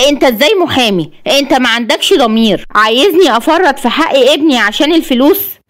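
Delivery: rising, understated indignation; mild anger. Acted. Mother rebukes the lawyer offering money, mildly angry. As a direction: accuse the lawyer, mildly heated. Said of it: "الام بعصبيه".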